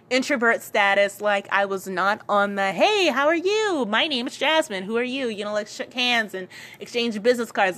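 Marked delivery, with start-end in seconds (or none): 2.7-5.3 higher, louder chirpy hello; mock outgoing networker; bubbly greeting. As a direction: play the confident greeter she wasn't. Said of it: "I was not that Jasmine".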